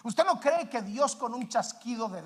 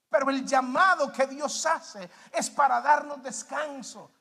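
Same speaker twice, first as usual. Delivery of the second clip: ordinary talk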